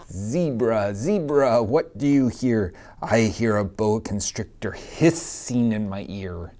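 lively sing-song picture-book reading; reading to children. Acted. Teacher reading a picture book to her class, sing-song. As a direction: read it out to a class of little kids.

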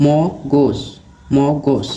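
"মগজ" split into mo-gos; model pronunciation. Shown as a demonstration. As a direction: say "মগজ" carefully as mo, gos, twice. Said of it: "উচ্চারণ কোনটি?".

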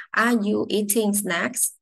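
slow, rising at the end of the question; rising question tune. Shown as a demonstration. Teacher modelling a yes-no question, voice rising at the end. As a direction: lift the voice at the end of snacks. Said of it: "phải lên giọng cuối câu".

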